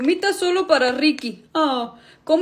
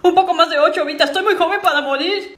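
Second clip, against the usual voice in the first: laughing through a panicked plea; half laugh, half panic over growing up; 2 semitones higher than usual. Acted. Girl panics laughing at period.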